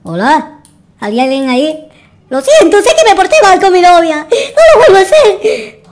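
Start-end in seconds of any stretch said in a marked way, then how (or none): 2.3-5.8 higher, hammed-up sobbing plea with a laugh breaking through; fake-cry an apology, half laughing; mock sobbing. Boyfriend begging forgiveness from the witch, mock sobbing.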